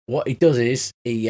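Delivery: ordinary talk, nothing marked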